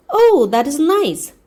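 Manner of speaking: slow, high gushing delight; gushing hostess. A narrator's reading. Hostess gushing at her guest, slow and high.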